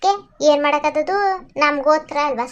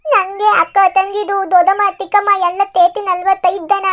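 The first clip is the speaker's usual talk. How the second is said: put-on high, childlike voice, a bit louder; lost little girl; 5 semitones higher, 4 dB louder than usual. Lost girl answering the man who found her, high childlike voice.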